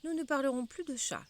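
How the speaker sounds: rappel doux. Acted. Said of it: "Alice la rappela doucement".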